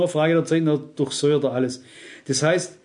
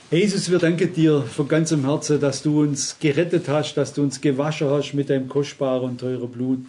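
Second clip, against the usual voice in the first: earnest spoken prayer to Jesus; a preacher praying for the congregation. Acted. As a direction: pray it sincerely, steady and even.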